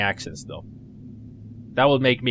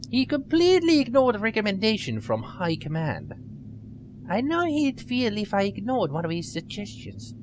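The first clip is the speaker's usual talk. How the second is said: put-on nerdy girl voice; 5 semitones higher than usual. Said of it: "I gave her a little nerdy voice".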